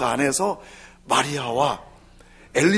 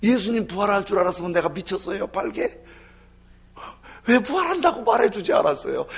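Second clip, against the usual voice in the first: lament of Judas; 4 semitones higher than usual. Retold or imitated. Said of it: "그러면서 막 울고 다니는 거예요".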